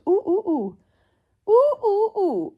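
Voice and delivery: high, rising "ooh, ooh, ooh"; distressed oohs. Real, not acted. Reader reeling from a disliked book, high oohs.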